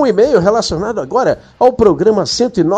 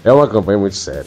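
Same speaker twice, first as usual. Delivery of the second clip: mock serious; 11 semitones lower, much faster than usual.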